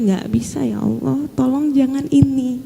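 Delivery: hushed, wincing plea to God; quiet desperate begging prayer; anguished pleading. Retold or imitated. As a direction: beg softly, slowing on the last tolong. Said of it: "Saya lebih meringis lagi".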